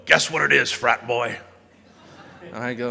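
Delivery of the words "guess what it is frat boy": teasing challenge. Retold or imitated. Friend handing over a mystery soda, loudly teasing. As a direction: playfully dare him to guess.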